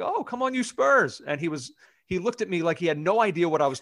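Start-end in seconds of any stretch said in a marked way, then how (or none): 0.0-1.2 cheering fan. Retold or imitated. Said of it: "I was like".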